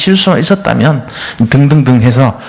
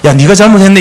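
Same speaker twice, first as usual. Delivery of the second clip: blunt blame; 6 semitones higher, 3 dB louder, faster than usual. Retold or imitated. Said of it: "내 편이라고 믿는 친구가".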